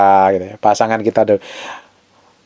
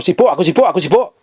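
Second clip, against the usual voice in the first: higher, repetitive brush-off; mock grumbling; 6 semitones higher than usual. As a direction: imitate a husband fussing that he can't talk. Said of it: "Malah dia ngomel". (omelan suami sibuk, ditirukan)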